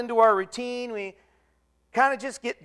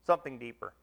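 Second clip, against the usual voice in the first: hushed emphasis; 10 semitones lower, 9 dB quieter, faster than usual. Shown as a demonstration. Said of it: "repeated for weight".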